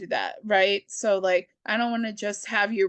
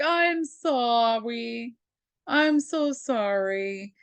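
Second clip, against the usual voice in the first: slow mock apology; much slower than usual. Hero apologizing to Guardians.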